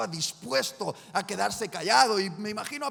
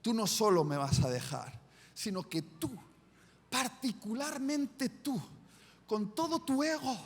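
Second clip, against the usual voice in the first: Jesus quietly and firmly warning Peter; forceful Jesus; 4 dB quieter than usual. Acted. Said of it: "con contundencia le dice".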